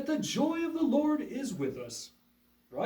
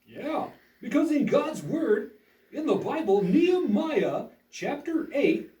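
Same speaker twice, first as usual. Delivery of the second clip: earnest upbeat school lecture. Acted. Puppet show host intro.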